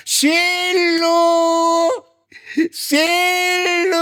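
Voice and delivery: high, very slow drawn-out call; calling sweetly. Retold or imitated. Husband calling his wife from downstairs, long high call. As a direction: stretch the pet name up into the building. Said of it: "એ ટૂંકા શોર્ટકટથી બોલાવે".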